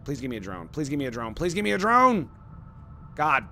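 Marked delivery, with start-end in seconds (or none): 0.0-2.3 pleading. Real, not acted. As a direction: plead with the game, getting more desperate. Begging the game for drone.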